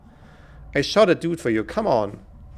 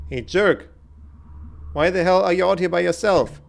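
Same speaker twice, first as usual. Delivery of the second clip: loud, higher telling-off; angry scolding; 6 semitones higher, 5 dB louder than usual. Acted. Scolding a friend who went out alone, loud. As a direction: scold him for going alone.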